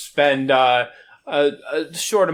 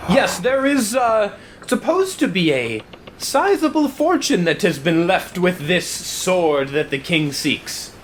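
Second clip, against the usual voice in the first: posh captain; 3 semitones higher than usual. Acted. Captain answers about treasure.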